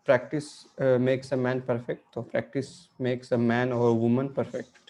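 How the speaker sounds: slow proverb. Shown as a demonstration. Drawn-out proverb for emphasis.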